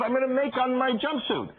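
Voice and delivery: high little-girl no, imitated; toddler protest. Dad imitating daughter refusing by the roadside. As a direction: squeak out the child's refusal. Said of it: "She goes".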